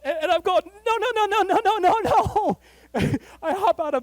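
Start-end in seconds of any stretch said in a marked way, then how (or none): 0.8-2.6 loud, high panicked string of no's; high frantic protest, almost yelling. Retold or imitated. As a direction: shout them down in alarm. Panicked refusal at the door.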